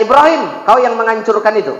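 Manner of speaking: put-on a king grilling the boy; stern king questioning. King demands whether Ibrahim smashed idols, stern questioning.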